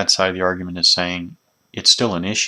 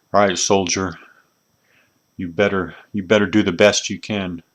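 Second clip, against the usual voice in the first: mock growling voice. Retelling what an NCO standing over him said before a test, imitating a growling NCO. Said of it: "he's growling at me".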